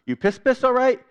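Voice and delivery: lightly voiced doctor; doctor in Pidgin. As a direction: ask brightly in Tok Pisin. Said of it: "share with you a little bit of what that was like".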